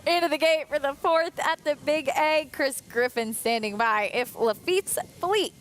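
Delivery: announcer. Acted. Studio host tossing to the race.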